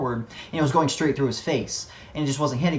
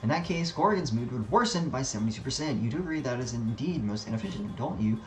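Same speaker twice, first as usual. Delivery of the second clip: soft, precise, lightly voiced schemer; calculating henchman; 2 semitones lower, 7 dB quieter than usual. Henchman talking another into taking on the job, softly pedantic. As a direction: quietly reason it out like a pedantic underling.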